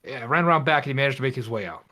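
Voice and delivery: nervous guy explaining fast. Acted. Player voices Ethan in character.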